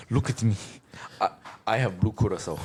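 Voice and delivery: lightly accented pirate playing bartender; Captain Phillips hijacker. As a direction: imitate a movie pirate tending bar. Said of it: "the guy from Captain Phillips as a tipsy bartender".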